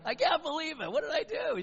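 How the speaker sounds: high, loud, hysterical mock embarrassment; imitated laughing outburst. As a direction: burst out like a mortified caller cracking up. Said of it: "she just burst out laughing on our voice message".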